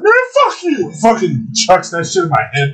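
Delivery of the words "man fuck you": imitating angry brother. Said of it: "And he was like".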